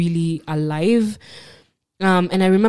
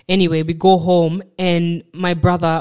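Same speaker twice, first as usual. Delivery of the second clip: ordinary talk, nothing marked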